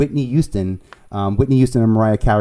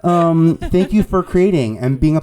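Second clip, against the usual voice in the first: loud, higher hammed-up greeting; Carole Baskin; 5 semitones higher, 6 dB louder than usual. Playfully greeting creators and editors, as Carole Baskin. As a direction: hail the fans in a playful celebrity impression. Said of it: "oh, I sound like Carole Baskin".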